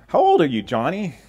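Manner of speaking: a hint of a cheerful cold caller; telemarketer. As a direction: salesman calling a house. Telemarketer voiced in joke.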